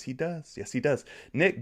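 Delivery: normal talking voice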